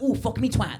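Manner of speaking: mock English accent. Comic imitates video performers, mock English accent. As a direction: put on a hammed-up English accent. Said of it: "they've got an English accent".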